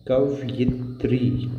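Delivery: कवयित्री said slowly and clearly; slow correct word. Shown as a demonstration. Teacher slowly gives students the correct कवयित्री. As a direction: stretch out कवयित्री with care. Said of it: "तो सही होता है".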